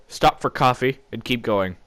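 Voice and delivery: plain reading voice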